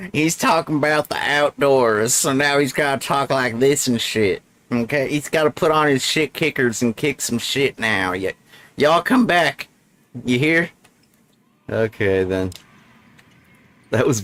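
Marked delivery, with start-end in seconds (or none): 0.1-10.7 put-on Southern accent. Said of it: "His accent just went all like".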